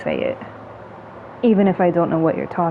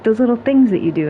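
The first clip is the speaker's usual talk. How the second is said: imitating Lee; 5 semitones higher, 4 dB louder, faster than usual. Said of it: "she's like".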